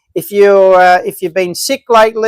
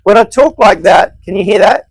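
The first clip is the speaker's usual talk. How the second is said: into a fan; 3 dB louder than usual. Shown as a demonstration. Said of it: "It sounds like I'm talking into a fan".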